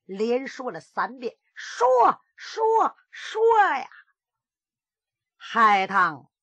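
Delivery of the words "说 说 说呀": each 说 climbs much higher, ending in a shouted 说呀; escalating angry interrogation; rising furious demand. Acted. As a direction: press her harder every time until you bark. Master demands an answer three times.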